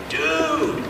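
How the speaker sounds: high, excited, laughing disbelief; amazed friend. Retold or imitated. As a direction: gush like a stunned buddy. Friend calls, amazed, retold.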